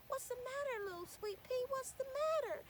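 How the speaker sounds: high, gentle coaxing; kind man. A narrator's reading. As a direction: soothe a crying child. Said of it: "one of them said".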